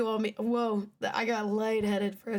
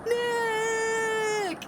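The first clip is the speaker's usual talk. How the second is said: shouted name; 9 semitones higher than usual. Acted. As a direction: yell the name as he falls. Calling after man on bridge.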